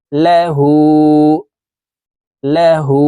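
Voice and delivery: long rounded vowel at the end of "লাহু"; rounded one-alif stretch. Shown as a demonstration. Teacher shows how ulta pesh is read, rounded long vowel in "লাহু". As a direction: round the lips and hold the final vowel of "লাহু". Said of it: "ঠোঁট গোল করে এক আলিফ টেনে".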